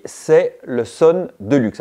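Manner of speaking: "Son Deluxe" spelled out slowly, each syllable placed with care; careful brand name. Shown as a demonstration. Vlogger carefully names the German hub brand, slow and hesitant. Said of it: "je sais jamais comment ça se prononce".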